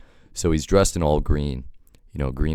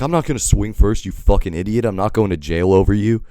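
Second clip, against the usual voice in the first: angry retort; 5 semitones higher, 4 dB louder than usual. Retold or imitated. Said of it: "I'm like".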